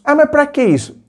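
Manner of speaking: high, breezy brush-off; dismissive boyfriend. Pretend. Boyfriend dodging talk of dating, high and dismissive. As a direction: shrug the question off like it's silly.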